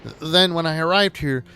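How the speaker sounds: mildly hammed-up anxious begging; distressed Toad, toned down. Reading Toad's dialogue after dropping squeal.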